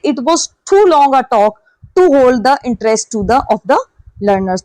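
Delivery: reads the sentence out slowly and evenly; slow question reading. Shown as a demonstration. Teacher reading the exam sentence to students, slow and measured. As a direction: dictate it word by word to the class.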